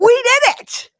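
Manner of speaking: high, loud playful celebration; jubilant cheer. Acted. God celebrating with the speaker, jubilant cheer. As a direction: cheer it like a triumphant teammate.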